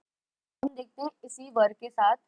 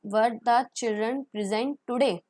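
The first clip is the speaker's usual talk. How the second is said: slow model question; much slower than usual. Shown as a demonstration. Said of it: "model question".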